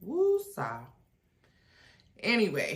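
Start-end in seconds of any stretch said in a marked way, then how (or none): 0.1-0.8 woosah swooping up high then falling; exasperated woosah. Real, not acted. Frustrated by hair and gadgets, high exasperated woosah. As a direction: sing out woosah high, half laughing at herself.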